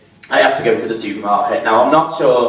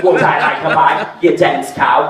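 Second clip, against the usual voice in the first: scornful mock; 3 semitones higher than usual. Mocking cashier, laughing.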